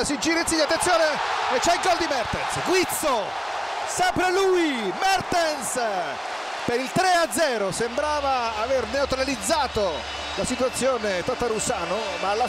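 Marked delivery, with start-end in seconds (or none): 0.0-7.7 higher urgent goal shout; excited goal call. Real, not acted. Mertens scores third goal.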